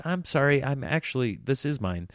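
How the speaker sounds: mock apologising while still claiming the seat; apologetic. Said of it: "you know how you apologize?".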